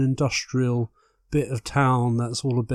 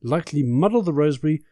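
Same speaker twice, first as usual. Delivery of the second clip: campy drag queen; 7 semitones higher, 3 dB louder than usual. Acted. Host reads recipe camply.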